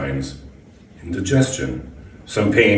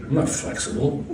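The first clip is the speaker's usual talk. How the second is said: laughing; 7 semitones higher, 6 dB quieter than usual. Acted. Job applicant laughing at her answer.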